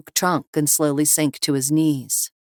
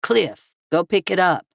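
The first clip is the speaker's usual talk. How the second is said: gruff thug; 4 semitones higher, 4 dB louder than usual. Acted. Villain orders companion.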